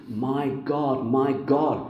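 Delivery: ringing cry of My God, my God. Acted. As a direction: proclaim My God, my God with force. Quoting Jesus' cry, raised.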